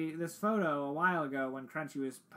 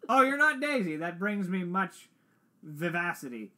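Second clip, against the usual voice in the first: put-on European accent; 2 semitones higher, 5 dB louder than usual. Doctor to the newcomer, mock European accent. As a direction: greet a stranger in a vague European accent. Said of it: "European accent".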